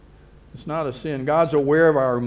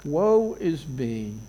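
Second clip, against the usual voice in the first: slow drawn-out lament; much slower than usual. Retold or imitated. Preacher echoing David's grief, slow and mournful. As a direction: draw out "Woe is me" slowly and mournfully. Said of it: "David does here".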